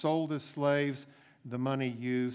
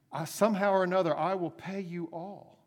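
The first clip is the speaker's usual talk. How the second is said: desperate promise; 5 semitones higher, 4 dB louder than usual. Acted. Debtor pleading with master.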